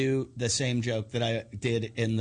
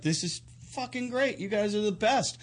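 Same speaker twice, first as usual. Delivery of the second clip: retold delight; 6 semitones higher than usual. Retelling his reaction to standing ovation.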